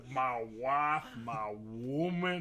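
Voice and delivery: slow, drawn-out "wife" and "woman"; hammed-up husband. Defending the line about Alex, hammed-up drawl. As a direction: stretch out "my woman" with put-on weight. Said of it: "Why'd you say it like that?".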